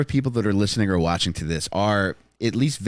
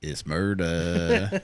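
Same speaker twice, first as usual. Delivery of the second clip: slow drawn-out catchphrase; 4 semitones lower, 4 dB quieter, much slower than usual. Pretend. Echoing a rapper's catchphrase.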